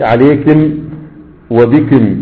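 عليكم وبكم said with kasra, alaykim, bikim; كاف of عليكم given i; wakm of Rabi'a. Shown as a demonstration. Teacher demonstrating Rabi'a dialect, kaf with kasra. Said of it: "يكسرون كاف الخطاب".

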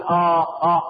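brief acted moan of pain; groaning in pain. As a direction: let out a mock "ah" of pain. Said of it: "انت تتأوه وتتألم من شدة الالم".

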